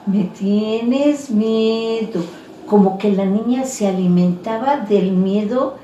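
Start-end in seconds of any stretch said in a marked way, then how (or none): 0.0-2.2 slow, lightly voiced ghost-girl taunt; mocking ghost girl. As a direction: stretch each word out slowly. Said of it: "se reía y se le quedaba". (niña fantasma que se burla despacio)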